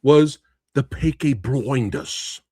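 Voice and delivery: slow, hammed-up fake English accent; bad English accent. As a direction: ham up a terrible English accent as a joke. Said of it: "That's the classic worst English accent".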